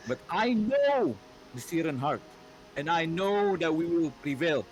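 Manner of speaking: solemn rallying proclamation, lightly husky; husky queen's speech. Acted. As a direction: address the troops like a stern queen. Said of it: "deep, husky, female voice".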